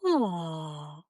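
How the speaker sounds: low, falling open-throated "oh"; yawny "oh". Shown as a demonstration. Coach demonstrating a lifted soft palate, yawny falling "oh". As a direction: let out a yawning oh with lifted palate. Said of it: "as if you're about to yawn and go".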